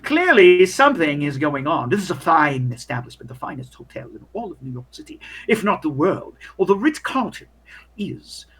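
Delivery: pompous, disdainful hotel clerk; snooty waiter. Acted. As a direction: sneer at the shabby guest.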